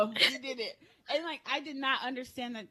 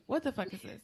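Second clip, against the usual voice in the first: lightly voiced grandmother, unbothered by cursing; imitated grandmother; 4 dB quieter than usual. Grandmother confronting child over the poop, lightly imitated. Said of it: "This is how she talks".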